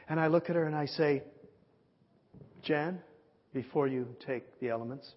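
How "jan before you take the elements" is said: lightly voiced solemn minister, with weighty pauses; a measured, self-important pronouncement; mighty man of God. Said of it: "you know, mighty man of God".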